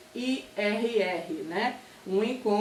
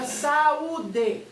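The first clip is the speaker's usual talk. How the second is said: "saúde" slowly broken into sa, u, de; syllable by syllable; 2 semitones higher than usual. Shown as a demonstration. Teacher giving another example of hiatus, "saúde" syllable by syllable. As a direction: space out each syllable of "saúde". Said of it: "separar essa palavra em sílabas".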